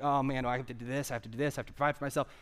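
rushed, lightly acted fretting; worried rambling. Imitating someone constantly worried, in a rushed fret. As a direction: rattle off a mock list of worries. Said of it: "if you're constantly like".

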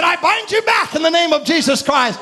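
retold binding order, fired out with force; forceful command. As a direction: command the serpent with sudden authority. Retold command binding the serpent again.

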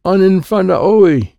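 high, slow garbled holler; yelling. A narrator's reading. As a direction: yell alien words to a teammate. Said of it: "I will yell to Audito".

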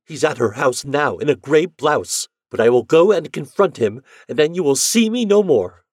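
high, loud frantic cry; wife bursting into her uncle's room; distraught. Acted. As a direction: rush it out in jealous despair. Jealous wife tells her uncle.

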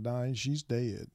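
slow, steady, retold calm delivery of terrible news; quietly even and slow, holding it together. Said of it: "very calmly".

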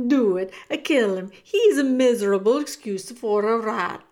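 loud, scornful goading; shouted. A narrator's reading. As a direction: egg them on with contempt. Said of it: "shouted Bertoli".

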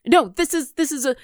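lightly voiced fretful owl familiar; flustered little owl. Owl explaining the journey to the party, mildly flustered. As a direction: stammer an explanation as a worried small creature.

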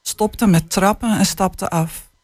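put-on calm, measured reading of a children's book; unhurried storytelling voice; story reading. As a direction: read it like an author sharing a tender chapter. Author reads passage aloud.

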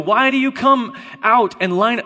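shouted challenge. Acted. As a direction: call it out to a whole army. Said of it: "shouted to the ranks of Israel".

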